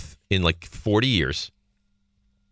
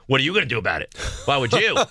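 higher-pitched cheeky back talk; retold defiance; 4 semitones higher, faster than usual. Son talking back to his mother, defiant imitation. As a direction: imitate a kid challenging a parent. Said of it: "he gets, like, defiant with her".

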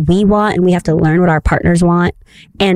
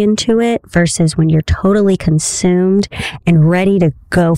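erotica voice. Pretend. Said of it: "read this in my best erotica voice".

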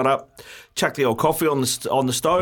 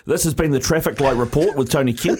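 mock announcer. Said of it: "mock radio sign-off".

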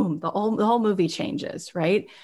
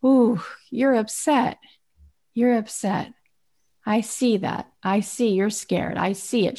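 gentle mirroring mother. Retold or imitated. Mother mirroring her crying baby.

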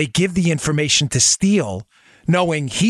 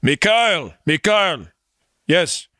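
hammed-up mock Russian accent; horrible Russian accent; 4 semitones higher than usual. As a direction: play a cartoonish Russian on a phone call. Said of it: "my horrible Russian accent".

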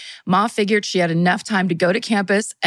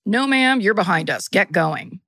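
a hint of a curt cop; lightly voiced brusque officer. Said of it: "And now this is the cop voice".

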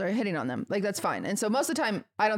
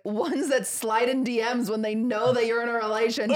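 dramatic outburst. Pretend. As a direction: shout it with fake tears. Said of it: "I'd be like".

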